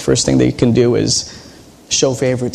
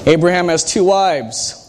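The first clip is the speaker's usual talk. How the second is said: teacher stressing two; quizzing stress; 3 semitones higher than usual. Shown as a demonstration. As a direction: lean on two like a quiz. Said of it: "this is teacher part coming out".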